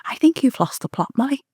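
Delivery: lightly voiced mum, pitched high; imitated mother. Mum telling her daughter she's lost it, imitated high voice. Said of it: "she'd turn around and say to me".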